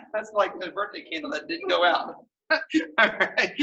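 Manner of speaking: real laughter spilling into the words; amused, chuckling through the remark; laughing. Real, not acted. Instructor joking with student about the breath, laughing.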